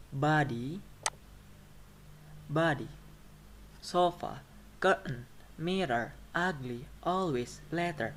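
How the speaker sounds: body, sofa, curtain, each stressed at the start; first-syllable stress. Shown as a demonstration. Teacher listing two-syllable nouns, body to letter stressed first. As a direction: hit BO in body, SO in sofa, then fall. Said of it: "stress will be on the first syllable".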